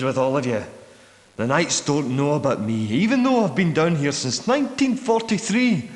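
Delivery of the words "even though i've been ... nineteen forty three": higher-pitched, more insistent; urgent plea. Acted. Hidden man asking strangers to get him out, urgent. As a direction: plead with mounting urgency.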